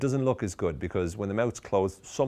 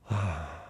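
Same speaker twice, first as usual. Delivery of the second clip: long, weary sigh of boredom. Shown as a demonstration. Coach demonstrating how to sound bored, bored sigh. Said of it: "Another thing is to actually sound bored".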